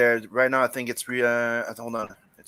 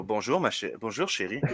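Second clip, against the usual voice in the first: French greeting; 2 semitones lower, 5 dB quieter than usual. Shown as a demonstration. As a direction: murmur it like a French charmer.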